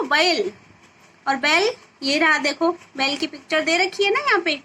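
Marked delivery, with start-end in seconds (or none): 0.0-0.5 बैल with a clear, drawn-out ऐ between ब and ल; model pronunciation. Shown as a demonstration. Teacher shows pupils how to say बैल, slow and clear. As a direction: say बैल so the children can copy the vowel. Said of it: "इस तरह उच्चारण करना होगा आपको".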